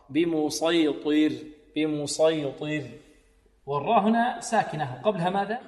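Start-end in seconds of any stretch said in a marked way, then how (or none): 0.1-2.8 very slow بمسيطر with heavy ط and thin ر; slow correct word. Shown as a demonstration. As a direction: draw it out correctly. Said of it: "مستعلية مطبقة". (نطق صحيح بطيء)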